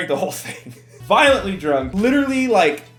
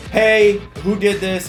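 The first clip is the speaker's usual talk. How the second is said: mock angry email; 4 semitones higher, 5 dB louder, slower than usual. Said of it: "sends an email that's like".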